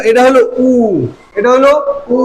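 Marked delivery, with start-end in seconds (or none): 2.1-2.2 উ with lips drawn small; rounded small-mouth উ. Shown as a demonstration. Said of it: "মুখটা ছোট হয়ে যায়". (মুখ ছোট করে উ)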